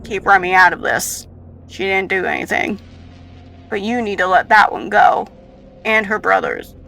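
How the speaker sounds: lightly voiced, loud firm demand; firm protector. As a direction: insist on the children's release.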